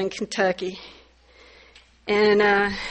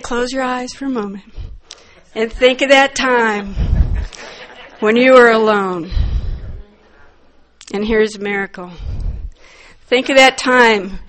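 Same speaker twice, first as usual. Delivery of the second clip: guiding voice; 3 dB louder than usual. Retold or imitated. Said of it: "So he said".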